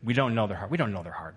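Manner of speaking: said strongly with the crowd. Shown as a demonstration. Preacher leading the congregation in a firm refrain. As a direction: lead the church in saying it. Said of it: "Would you say it with me?".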